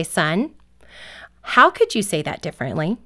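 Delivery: calm parent with a gentle smile in the voice; gentle, smiling voice. Acted. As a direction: coach a child softly, no scolding. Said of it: "with a smile in the tone".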